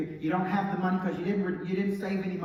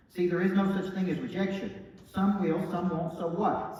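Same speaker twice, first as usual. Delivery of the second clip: louder, slowing on the last line; proclaimed mantra; 3 semitones higher, 5 dB louder than usual. Acted. Speaker preaches the mantra to his audience, loud and slow. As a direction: drive it home to the room.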